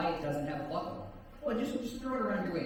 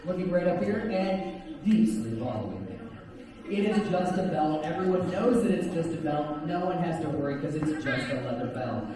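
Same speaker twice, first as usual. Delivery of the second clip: hypnotic suggestion; 3 semitones lower than usual. Acted. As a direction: keep the trance suggestions rolling. Hypnotist induction over crowd noise.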